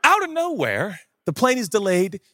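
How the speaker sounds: ordinary delivery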